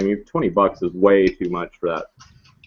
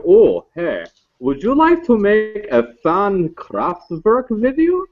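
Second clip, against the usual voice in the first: higher, slow eager clerk calling out; the clerk tries to win over the cipher; lightly voiced hopeful stoner; 10 semitones higher, slower than usual.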